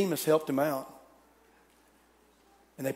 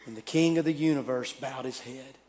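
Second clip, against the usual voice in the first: fading dying whisper; 4 semitones lower, 5 dB quieter than usual. Acted. Dying words, fading to nothing.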